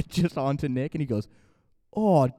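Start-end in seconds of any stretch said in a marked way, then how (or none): 1.9-2.3 high, loud, drawn-out mock wail; imitated exasperation. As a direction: wail it like a kid who just blew it. Retold kid drops the bat.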